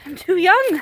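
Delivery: loud, mock despairing protest; loud lament. Shown as a demonstration. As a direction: wail it out loud. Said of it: "repeated as a whisper".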